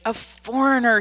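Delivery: roared. A narrator's reading. Drunk man roars at the foreigner, loud and high. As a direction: bellow it like a drunk brute. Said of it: "he roared".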